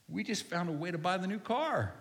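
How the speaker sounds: high, eager retold exclamation; acted-out excitement, high-pitched; excited announcement. Gleefully announcing find to wife.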